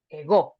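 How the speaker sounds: ego with the force on the final syllable; stress accent. Shown as a demonstration. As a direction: lean on the "go" of "ego". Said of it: "with more force".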